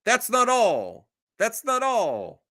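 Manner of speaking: drawn-out high pitchman tease; infomercial voice. Pretend. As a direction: hype it like a shopping channel host. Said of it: "This sounds like an infomercial".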